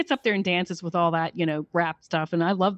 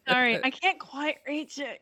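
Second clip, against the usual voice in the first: mock helpless wife; 6 semitones higher, 4 dB quieter than usual. Mocking Bianca.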